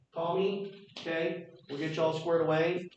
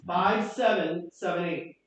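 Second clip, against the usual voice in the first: slow dictation; slower than usual. Shown as a demonstration. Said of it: "ready? Here we go".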